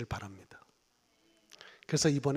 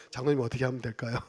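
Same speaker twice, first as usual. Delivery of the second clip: humble asking; 4 semitones lower, faster than usual. Retold or imitated. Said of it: "지금은".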